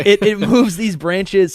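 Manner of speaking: slow, pushing through the hiccups. Real, not acted. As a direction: talk while fighting hiccups. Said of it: "I got the hiccups".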